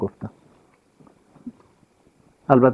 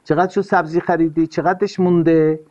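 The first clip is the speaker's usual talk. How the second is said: stingy husband; 4 semitones higher than usual. Retold or imitated. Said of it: "اینقدر گدا باش که به خانمت بگی".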